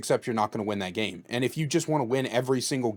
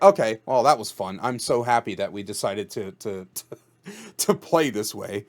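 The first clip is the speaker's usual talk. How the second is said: sarcastic; 4 dB louder than usual. Acted. Mock-happy reaction to being ambushed.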